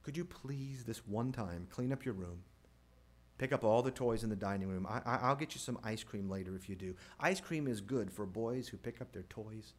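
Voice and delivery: a hint of sugary coaxing to a child; coaxing parent. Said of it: "For example, parent says".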